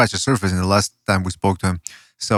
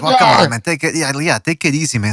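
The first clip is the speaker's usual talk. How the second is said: sudden outburst; 3 semitones higher than usual. Retold or imitated. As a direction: burst out like an angry pundit. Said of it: "all of a sudden he'll explode".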